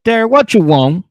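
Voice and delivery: put-on high, loud sassy girlfriend voice; mock girlfriend. Monique answering Derek's call, sassy mock voice. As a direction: snap back at him in a high put-on voice. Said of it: "She's like".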